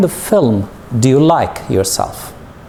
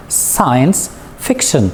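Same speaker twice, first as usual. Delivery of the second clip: Science fiction, slowly, stressing SCI and FIC; stress on both word beginnings; slower than usual. Shown as a demonstration. Teacher models two words, Science fiction stressed on each first syllable. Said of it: "The stress is in the beginning of the two words".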